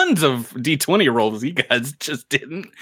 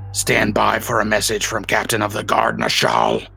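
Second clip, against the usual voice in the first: ship tannoy announcement. Acted. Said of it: "broadcast over open comms".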